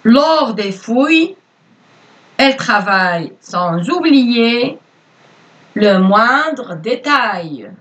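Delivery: slow, clear dictation voice; dictating. Acted. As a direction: read it out word by word for pupils. Teacher dictates to pupils.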